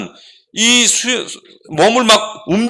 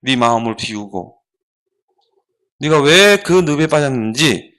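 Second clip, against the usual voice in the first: lecturing monk; 5 semitones lower than usual. Acted. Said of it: "눈을 감고 딱 눈을 떠고 뭐라 하냐면은".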